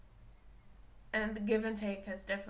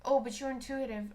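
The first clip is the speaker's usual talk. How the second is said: louder mocking jab; sarcastic jab, louder; 3 semitones higher, 6 dB louder than usual. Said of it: "I'm like".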